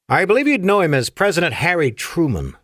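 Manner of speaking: put-on a light Afrikaner-like accent on an old admiral; strange Afrikaner-like accent. A narrator's reading. Ancient admiral tells the colonel about his gift, light Afrikaner-like accent. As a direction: lightly lean into an Afrikaner-like accent, formal and unhurried. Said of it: "in his strange Afrikaner-like accent".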